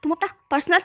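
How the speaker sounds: shouting. Acted. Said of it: "Chang ने चिल्लाते हुए कहा".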